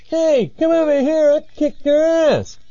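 very high mock threat, called out; distant taunting caller. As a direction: goad them from over the dune. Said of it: "they hear this again".

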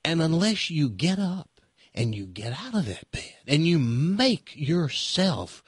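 mock a TV preacher gently, with a touch of southern lilt; a hint of a soothing televangelist; Joel Osteen impression. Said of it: "That's how, that's how Joel Osteen talks".

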